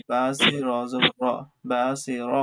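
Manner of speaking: heavy র demonstrated. Shown as a demonstration. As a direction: give the র in "বা সি র" a thick, heavy sound. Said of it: "রটা ভিতর থেকে একটু মোটা করে".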